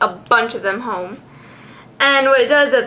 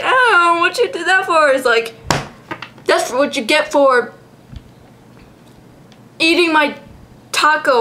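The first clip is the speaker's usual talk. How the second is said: voicing the Pokemon; 3 semitones higher than usual.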